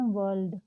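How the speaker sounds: वर्ल्ड with the R dropped, "wuh-ld"; silent R. Shown as a demonstration. Teacher showing students silent R, वर्ल्ड said without R. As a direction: leave out the R in वर्ल्ड. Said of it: "आर नहीं बोल रहे हैं".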